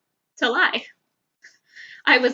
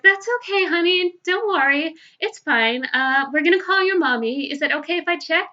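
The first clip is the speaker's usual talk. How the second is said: put-on soothing a child; 5 semitones higher than usual. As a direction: comfort the crying boy, sing-song and bright. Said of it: "So I was like".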